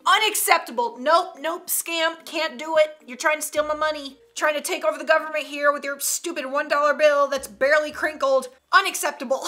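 lightly voiced fussy machine refusing; indignant vending machine. Vending machine refusing a wrinkled dollar, mock indignant. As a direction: reject it firmly, mock indignation. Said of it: "Vending machine".

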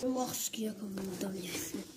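soft hushed whisper; whispering while hiding. Real, not acted. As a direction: whisper it under your breath. Still hiding, peeking at windows.

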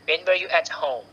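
"when were you at home" with a falling end on "home"; teacher's WH-question, falling at "home"; falling intonation. Shown as a demonstration. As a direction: drop the pitch on "home". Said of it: "ลงท้ายเสียงต่ำ".

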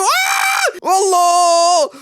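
sudden high startled yell; startled shout. Real, not acted. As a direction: cry out in shock. Sudden shock in game.

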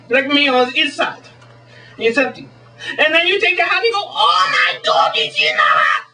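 high, hammed-up mock Swedish showman; Swedish magician. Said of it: "as the Swedish magician".

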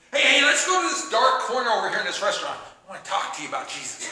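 a hint of creepy invitation; lightly voiced weirdo. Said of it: "don't be weird".

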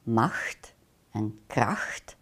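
slow, hushed whisper of the two Dutch words. Shown as a demonstration. Teacher presenting two Dutch words to listeners, whispered slowly. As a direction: breathe the words out slowly like a secret.

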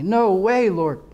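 high-pitched mock-panicked refusal; retold scared refusal. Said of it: "it scared the daylights out of me".

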